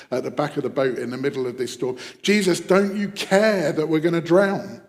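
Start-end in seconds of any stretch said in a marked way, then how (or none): 2.2-4.8 raised, urgent cry of protest; mild mock shout. Panicking disciples to sleeping Jesus in the storm, mildly shouted. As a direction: call out accusingly, louder and higher. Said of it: "and shout at".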